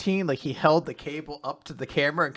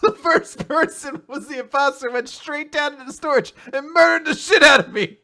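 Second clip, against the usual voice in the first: excited outrage; 12 semitones higher, 4 dB louder than usual. Real, not acted. Excited laughing birthday complaint.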